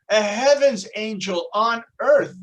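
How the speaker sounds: beam with pride, showing off a masterpiece; God proudly unveiling what you could be; excited God. Acted. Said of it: "And God, all excited, says".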